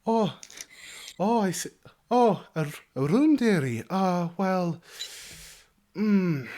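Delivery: high, bustling innkeeper voice; high motherly innkeeper calling everyone dearie; fussy halfling innkeeper. Acted. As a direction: chatter like a motherly halfling landlady.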